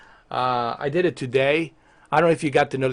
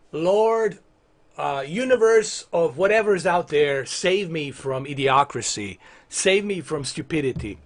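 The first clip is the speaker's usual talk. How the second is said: mock prayer. Streamer begs the universe for help, mock prayer. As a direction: pray wearily for rescue from idiocy.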